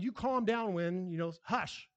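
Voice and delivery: Jesus ordering the wind to calm down, stern; commanding the wind. Retold or imitated. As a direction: scold the storm like a child. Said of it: "telling the wind".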